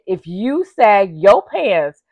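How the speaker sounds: slow, heavy, deliberate quote; slow mock-solemn prison voice; quoting Fleece. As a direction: lay down the law like the Booty Warrior. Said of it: "he said".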